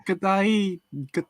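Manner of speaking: halting attempts at an Australian accent; bad Australian accent. Shown as a demonstration. Practising the greeting in a terrible Australian accent. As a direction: practise a poor Aussie greeting, restarting it. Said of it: "the worst Australian accent".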